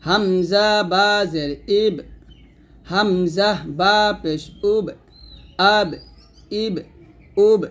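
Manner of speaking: measured drill, final ব of ইব and উব bounced; qalqalah bounce. Shown as a demonstration. Teacher drilling the letter ba for learners, echoing ব in আব, ইব, উব. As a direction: pop the ব in আব, ইব, উব with a short echo. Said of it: "এরকম".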